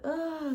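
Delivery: high-pitched retold "ah"; pained groan. Mother retelling getting in the car in labour, pained groan. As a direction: groan high, imitating contraction pain.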